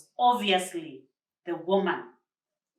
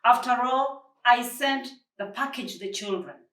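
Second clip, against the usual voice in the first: disbelief; 5 semitones higher, 6 dB louder than usual. Acted. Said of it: "There was disbelief in his voice".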